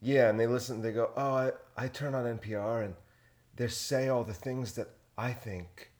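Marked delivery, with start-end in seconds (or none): 1.1-5.9 mock NPR listener. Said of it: "That's a good accent".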